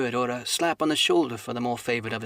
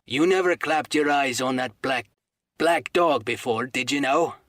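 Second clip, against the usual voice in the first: slow, louder stern warning; very sternly; 4 dB louder than usual. Acted. Silver sternly confronts old Morgan, slow and loud. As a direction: weigh each word at Morgan. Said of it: "said Long John very sternly".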